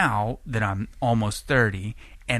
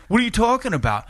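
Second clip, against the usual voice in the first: high, playing dumb; high mock innocent voice; innocent denial; 11 semitones higher, 4 dB louder, faster than usual. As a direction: caught man playing innocent. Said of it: "He's like".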